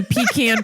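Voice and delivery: "pecan" said as PEE-can; alternate pronunciation. Shown as a demonstration. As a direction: stress the first syllable of "pecan", like "pee-can". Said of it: "for all of you that wanna do pecan".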